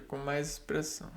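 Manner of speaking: unvoiced aside; whisper. Real, not acted. Teacher quietly adding a note to students, whispered. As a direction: breathe it out as a soft afterthought.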